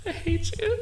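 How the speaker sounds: laughing while holding in a burp; swallowing back a burp mid-laugh; stifled burp. Real, not acted. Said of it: "trying to stifle a burp".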